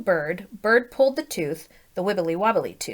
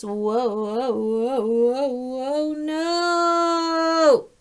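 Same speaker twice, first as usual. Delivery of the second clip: mock panic as it flies; playful alarm building up; rising alarm; 4 semitones higher, much slower than usual. Real, not acted. Watching tooth fly, alarm.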